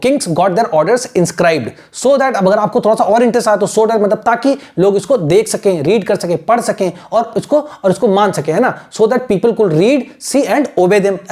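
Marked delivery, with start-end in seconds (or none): 0.0-2.3 very slow, word by word; teacher dictating; slow dictation. Shown as a demonstration. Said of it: "बस इतना लिखो". 8.9-11.3 very slow, word by word; teacher dictating; slow dictation. Shown as a demonstration. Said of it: "ऐसे लिख लिया".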